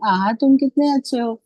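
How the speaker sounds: exclamatory reading. Shown as a demonstration. Teacher to trainee teachers, showing how to read an exclamation with delighted surprise. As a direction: read "आहा, तुम कितने अच्छे हो" with wonder and delight. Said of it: "अलग-अलग तरीके से उसको पढ़ना है".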